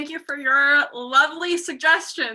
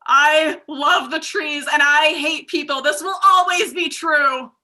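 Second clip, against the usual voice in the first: declaring; 5 dB louder, slower than usual. Acted. Rat Lorax declaring.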